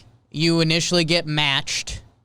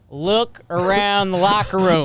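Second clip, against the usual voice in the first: hype speech; 4 semitones higher, 4 dB louder, slower than usual. Acted. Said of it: "hype speech".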